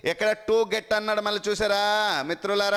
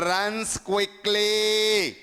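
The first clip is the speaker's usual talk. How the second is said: slow dictation; much slower than usual. Shown as a demonstration. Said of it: "For example చూడండి".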